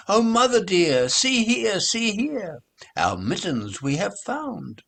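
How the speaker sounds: high, loud, eager little kittens; excited kitten voice. Acted. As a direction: squeal it out to mother. Kittens show found mittens.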